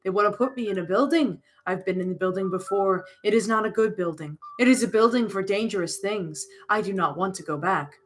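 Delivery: lightly voiced, halting and formal; solemn moth creature. B C confessing to Alina, solemn.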